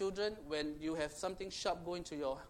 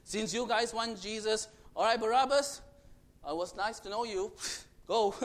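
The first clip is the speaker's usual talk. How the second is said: flippant Pilate; 5 dB louder than usual. Retold or imitated. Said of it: "Pontius Pilate said".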